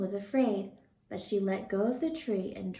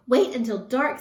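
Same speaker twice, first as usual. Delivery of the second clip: louder eager call; can hardly wait for night; excitedly; 3 semitones higher, 8 dB louder than usual. A narrator's reading. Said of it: "Stellaluna said excitedly".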